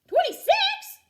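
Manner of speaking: high, loud shocked exclamation; alarmed teacher outcry; exclaiming in surprise. A narrator's reading. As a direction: count it twice in disbelief. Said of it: "Missus Hartwell exclaimed".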